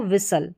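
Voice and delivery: विसल with S going straight into L; silent T. Shown as a demonstration. Teacher applying the STLE rule, silent T. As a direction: say विसल as WIS-ul, no T. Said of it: "टी silent है".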